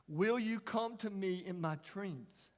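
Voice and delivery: put-on slow, tender retelling of the boy's words; slow child's question. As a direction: let each word land slowly. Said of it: "he said those eight words".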